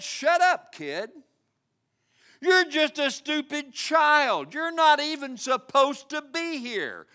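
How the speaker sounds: put-on scornful older brothers snapping at a kid; mock the little brother with contempt; furious brothers. Brothers scolding David for showing up, angry. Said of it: "They were furious".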